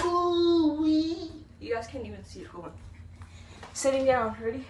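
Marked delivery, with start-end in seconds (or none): 0.1-1.3 excited whoop. Real, not acted. Thrilled reaction to trick.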